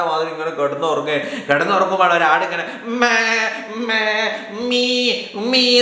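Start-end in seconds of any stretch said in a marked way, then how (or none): 2.8-5.8 goat bleat. A narrator's reading. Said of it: "എന്ന് പറഞ്ഞ് വരുന്നത്".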